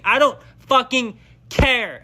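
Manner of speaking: defiant. Real, not acted. Defiant declaration.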